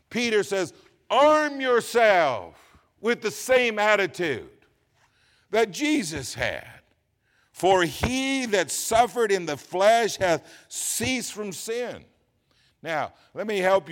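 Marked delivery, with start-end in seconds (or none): 1.1-12.0 slow, weighty pulpit reading with pauses; emphatic scripture recitation. Real, not acted. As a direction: declaim the verse phrase by phrase. Declaims a scripture verse.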